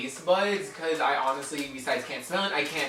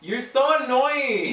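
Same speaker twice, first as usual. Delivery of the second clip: playfully annoyed; 11 semitones higher, 6 dB louder, much slower than usual. Real, not acted. Teasing refusal, friend pushing.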